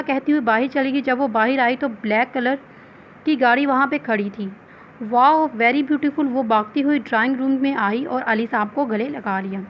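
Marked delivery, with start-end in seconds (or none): 5.0-6.3 slow, drawn-out delighted wow. Acted. Daughter admiring her new gift car, slow and delighted. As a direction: savour each word in awe.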